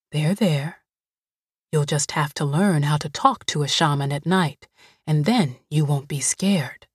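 put-on low, gentle housekeeper comforting a scared girl; Greasy soothing. Greasy soothing, ends whispered.

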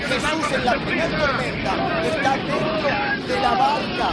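emphatic, projected pulpit declaration; rousing preacher's delivery; full-force preaching. Acted. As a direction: proclaim it to the whole congregation.

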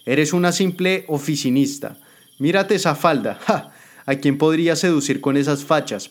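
mocking Jimena. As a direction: ridicule her skirt. Jimena mocks her clothes.

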